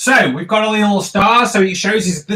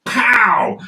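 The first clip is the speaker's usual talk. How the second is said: sound effect; 2 semitones higher than usual. Shown as a demonstration. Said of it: "shows he's been".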